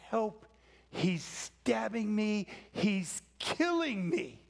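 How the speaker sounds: restrained imitation of a victim's scream; retold cry for help. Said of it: "and she screamed. She cried out".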